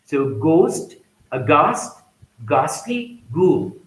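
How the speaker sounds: "ghost", "ghastly", "ghoul" with no H sound; hard G, drop the H in "ghoul"; "aghast" said with a plain G; silent H. Shown as a demonstration. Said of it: "H is not pronounced".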